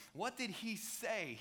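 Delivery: what did he say, drawn out slowly word by word; slow right down to land the question; slowed-down repeat. Shown as a demonstration. Preacher repeating the question slowly to the congregation.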